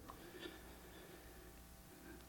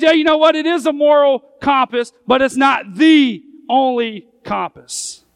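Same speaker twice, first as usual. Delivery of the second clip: sly tempter; 3 semitones higher, 5 dB louder than usual. Retold or imitated. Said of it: "He says".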